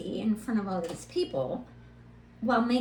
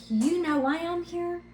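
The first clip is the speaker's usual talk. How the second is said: firm retort. Retold or imitated. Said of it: "I was like".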